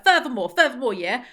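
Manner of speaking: mock South London accent, emphatic. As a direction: imitate a South London talker. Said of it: "South London's always like".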